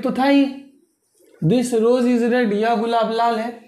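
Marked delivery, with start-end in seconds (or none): 1.4-2.5 very slow, word by word; dictating pace, each word apart; slow dictation. Shown as a demonstration. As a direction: spell it out slowly for students. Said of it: "teacher dictating slowly".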